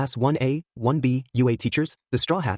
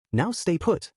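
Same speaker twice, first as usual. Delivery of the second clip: commanding; 7 semitones higher, slower than usual. A narrator's reading. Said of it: "he commanded".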